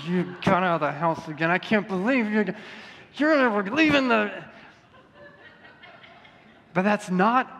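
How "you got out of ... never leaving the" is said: put-on grumbling like a cranky old man; old man grumble. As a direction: mutter it like a grouchy old man. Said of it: "that senile old man grumble under my voice".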